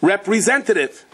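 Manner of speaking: patient exaggerated enunciation; slow deliberate repeat. Repeating to the phone robot.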